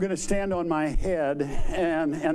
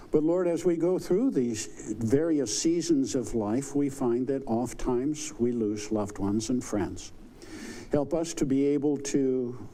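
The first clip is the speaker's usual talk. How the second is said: prayer; 3 semitones lower than usual. Acted. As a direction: pray it humbly and gently. Leads an opening prayer.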